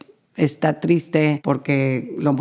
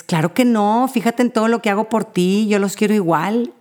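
quick, raised-pitch protest of innocence; defensive parent; 5 semitones higher than usual. Retold or imitated. Parent answering a jealous child, mildly defensive. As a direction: brush it off indignantly, a little higher. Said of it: "Eso es una respuesta a la defensiva".

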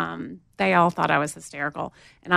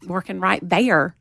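Southern accent. Shown as a demonstration. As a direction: stretch "there" in a Southern accent. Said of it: "I had it in my Southern accent".

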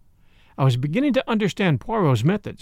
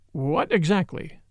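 cautious; slower than usual. Acted. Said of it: "I asked cautiously".

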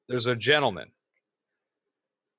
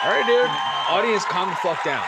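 mock crowd hushing; 4 semitones higher, 3 dB louder than usual. Shushing imaginary audience.

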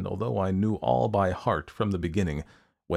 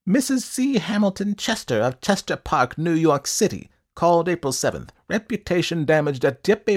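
high, loud, declaiming little man; high-pitched, officious recital; eccentric ledger-keeper; 9 semitones higher, 5 dB louder than usual. A narrator's reading. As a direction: read the entry out in a high, emphatic voice.

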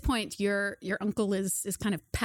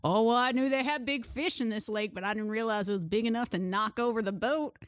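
chuckling uncle; 2 semitones higher than usual. Acted. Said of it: "he kinda laughs and he goes".

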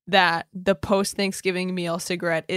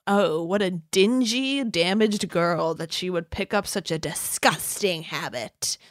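mock judgmental sneer. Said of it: "they're like".

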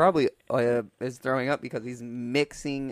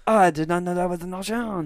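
put-on higher, playful French accent; 5 semitones higher than usual. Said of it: "do a French accent now".

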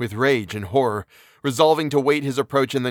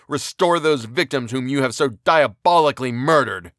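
furious detestation; 2 semitones higher than usual. Acted. Victor rages at the creature he made, furious tirade. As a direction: hurl threats at him in rage. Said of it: "overwhelm him with words expressive of furious detestation".

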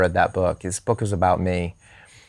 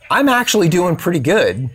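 sheepish reply; 8 semitones higher, 4 dB louder than usual. Retold or imitated. Jim's sheepish reply, eyes wide.

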